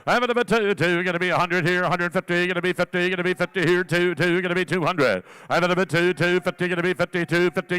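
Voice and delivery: rapid rhythmic auction chant; auctioneer. Acted. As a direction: rattle off the bids in a steady chant. Auctioneer calling bids.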